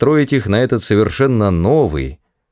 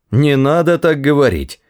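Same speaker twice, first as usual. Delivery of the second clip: higher, mildly pleading request; 6 semitones higher than usual. A narrator's reading. Ford asking the guard to stop, mildly pleading. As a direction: ask him to stop, a little plaintive. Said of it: "попросил Форд".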